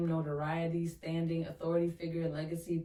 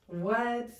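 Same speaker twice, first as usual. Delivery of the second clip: surprised what; 6 semitones higher, 4 dB louder than usual. Real, not acted. Delighted surprise at reading.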